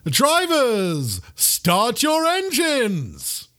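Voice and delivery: high, drawn-out stadium announcer; race announcer. Acted. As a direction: call out the line-up slowly, stretching each name. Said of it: "The announcer comes on".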